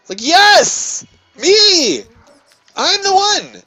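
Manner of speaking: high, loud exasperated cries; exasperated outburst. Retold or imitated. Retelling the argument, high exasperated outburst. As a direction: burst out in disbelief.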